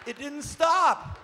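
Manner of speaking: high, loud laughter breaking through the words; laughing hard. Real, not acted. Storyteller laughing while recalling his daughters' terror. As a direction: laugh helplessly at the memory.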